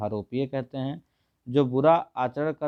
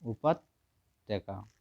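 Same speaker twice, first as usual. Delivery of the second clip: slow model word; 3 semitones lower, 4 dB quieter, much slower than usual. Shown as a demonstration. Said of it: "उपत्यका बोलते हैं".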